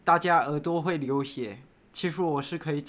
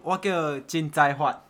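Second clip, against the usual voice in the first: put-on Taiwanese accent. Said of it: "台湾口音讲一下你的本名".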